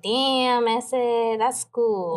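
lightly put-on Chicano accent; a touch of a mock Chicano accent. Reacting to the TikTok video, mock Chicano accent. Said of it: "Chicano accent".

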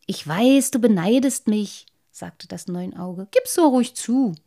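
a lightly voiced sly eel-like fish, teasing. Lamprey teasing the little waterman, mock-smug. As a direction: tease the boy like a smug fish.

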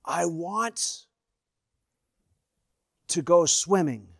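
small, softened voice with halting pauses; mock faint whisper. Dying wife answers husband at bedside, faint and halting. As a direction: imitate a frail whisper, a long gap midway. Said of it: "And she whispered".

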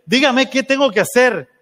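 pregunta apremiante, muy aguda; exigencia imitada. Retold or imitated. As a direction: exige respuesta como un papá desesperado. Papá exige una respuesta. (súplica actuada al pastor)

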